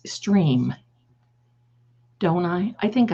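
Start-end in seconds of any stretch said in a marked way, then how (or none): 0.1-0.7 whispered. Real, not acted. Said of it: "I think I'll just whisper".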